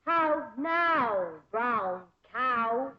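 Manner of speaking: drawn-out "How now, brown cow", rising at the end; diction drill. Acted. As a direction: stretch "How now", then lift "cow" like a question. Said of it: "practice diction and intonation".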